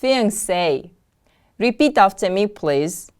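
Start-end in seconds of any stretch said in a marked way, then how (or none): 0.0-0.9 "Fiancé" with a stressed, falling SAY at the end; careful teacher's "Fiancé", weight on the final syllable; stress on last syllable. Shown as a demonstration. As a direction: model "Fiancé" as fi-an-SAY. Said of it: "The stress is on the last syllable".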